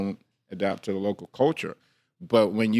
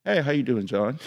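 office greeting; 2 semitones higher than usual. Shown as a demonstration. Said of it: "when I'm talking to white folks".

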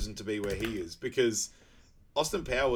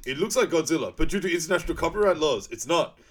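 higher and louder, a hammed-up alarm building to a yell; mock shouted warning; 7 semitones higher, 9 dB louder than usual. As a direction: play the panicked hero shouting. Acting out movie character's warning.

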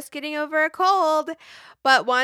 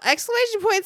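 read out; 9 semitones higher, faster than usual. Acted. Reading out punctuation.

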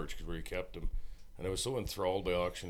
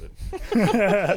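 loud; 14 semitones higher, 14 dB louder than usual. Pretend. Auctioneer practice, loud.

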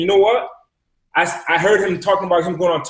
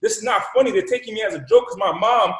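indignant outburst; 6 semitones higher than usual. Retold or imitated. Indignant after being muted.

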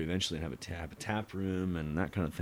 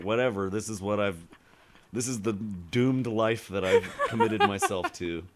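resigned husband. Retold or imitated. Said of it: "he's just like".

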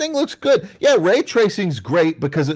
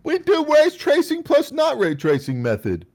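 mock developer voice; 12 semitones higher than usual. Mocking developers' logic.

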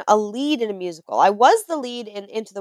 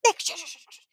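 higher hushed shushing; shushing mom; 8 semitones higher, 7 dB quieter, much faster than usual. Retold or imitated. Mom hushing her son in the theater, high and hushed. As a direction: hush the child urgently but softly. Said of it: "She was like".

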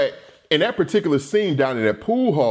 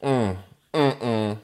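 grimacing grunts; 5 semitones lower, 3 dB quieter, slower than usual. Retold or imitated. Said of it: "he got his face all screwed up".

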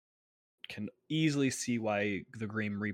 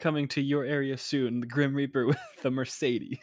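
horror trailer voice; 4 semitones higher, 7 dB louder than usual. Pretend. Mock movie trailer announcement.

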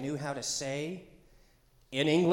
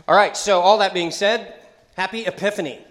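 excited greeting; 6 semitones higher, 12 dB louder than usual. Real, not acted. Greeting congregation after announcements.

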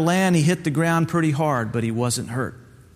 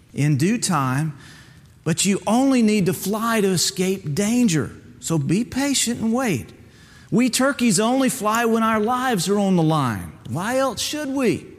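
a hint of a stern, higher mentor voice; lightly voiced turkey mentor; 7 semitones higher than usual. Mentor tells Bubba hard truths, lightly voiced stern teacher. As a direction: gently lecture the young bird.

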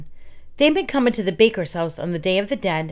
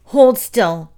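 raised, louder goblin voice; lightly voiced goblin, louder; 4 semitones higher, 7 dB louder than usual. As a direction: bark it like an impatient goblin. Goblin voiced in read story.

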